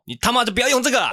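put-on sudden high loud yell at the old man; mock yell. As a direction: snap it out loud, flipping from kindness to rudeness.

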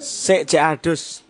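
slow, stretched reading of the excuse; slow drawn-out excuse. Retold or imitated. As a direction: drag it out like a lazy excuse. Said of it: "Jawabanmu dhisik iki".

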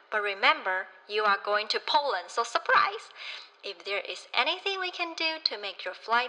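polite flight attendant announcement. Pretend. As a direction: read it like a cabin purser. Purser welcomes passengers on board.

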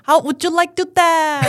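sing-song Indian English lilt; Indian accent. Retold or imitated. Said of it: "是这种的".

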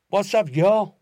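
high, loud, easygoing "What's up, yo"; casual greeting. Pretend. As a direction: greet a buddy, all breezy. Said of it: "我们开头就讲".

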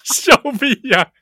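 teasing. Shown as a demonstration.

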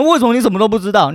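fast, high, scornful imitation of the accuser; mock accusing question. Mocking the friend who asked why he knew nothing, fast and high. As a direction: mimic the ungrateful nag, quick and shrill-pitched. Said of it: "他妈的拿回来还跟我说".

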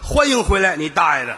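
模仿系统欢迎语，略微拔高; 像电脑播报一样念出来; 游戏提示音. Retold or imitated. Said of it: "可乐之极". (一本正经地模仿系统播报)

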